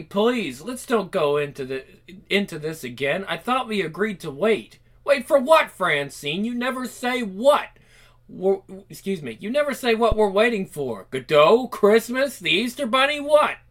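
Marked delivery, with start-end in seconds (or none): 5.0-13.6 frustrated outburst. Acted.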